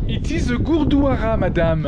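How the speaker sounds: put-on French accent with Gurdwara said gur-dwa-RA; mock French guide accent. French guide accent to a visitor. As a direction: play a fake French tour guide to the lady. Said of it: "I am your French guide".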